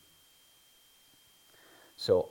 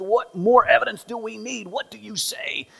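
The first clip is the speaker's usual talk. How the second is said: much higher, louder indignant demand; high priest demanding, high and loud; outraged high priest; 11 dB louder than usual. Retold or imitated. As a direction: cry out as the offended priest.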